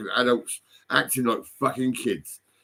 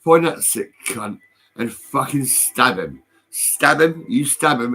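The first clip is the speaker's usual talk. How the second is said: angry; 5 dB louder, slower than usual. Real, not acted. Ranting about neighbour.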